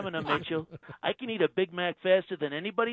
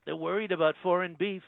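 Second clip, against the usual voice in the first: Trump impression. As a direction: play the president, smug and self-assured. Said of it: "Donald Trump".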